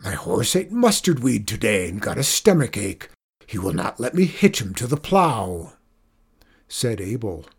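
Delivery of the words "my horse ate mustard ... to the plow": mild storybook shout in a farmer's voice. A narrator's reading. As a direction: complain forcefully, half-shouted. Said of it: "Zeke shouted".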